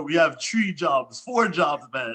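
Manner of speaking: lightly put-on Jamaican accent, drawn out. Guest quoting a sketch to the hosts, mock Jamaican accent. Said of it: "just like in Living Color".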